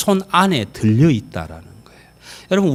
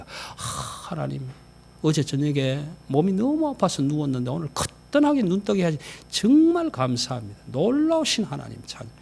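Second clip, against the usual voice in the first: 감탄하는 기도; 6 dB quieter than usual. Shown as a demonstration. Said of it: "감탄하면 그게 찬양이 되는 거란".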